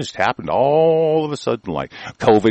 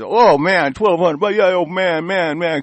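mock excitement; 6 semitones higher than usual.

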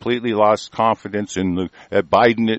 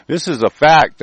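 insisting caller; 3 semitones higher, 4 dB louder than usual. Retold or imitated. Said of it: "he insisted".

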